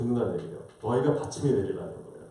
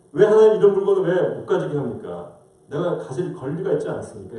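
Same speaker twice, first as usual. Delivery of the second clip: arguing back; 3 semitones higher, 4 dB louder than usual. Retold or imitated. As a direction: challenge God as the aggrieved Achan. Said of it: "이렇게 따지는 거예요". (따져 묻는 말투 흉내)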